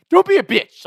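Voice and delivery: high excited jeer; mock taunt. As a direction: goad him on.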